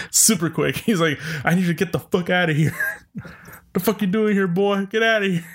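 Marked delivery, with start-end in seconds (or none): 1.4-2.8 fast, mock angry snap; imitating an irate hunter. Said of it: "The guy gets irate". 3.7-5.5 higher mock angry yell; hamming up a furious redneck; irate. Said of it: "The guy gets irate".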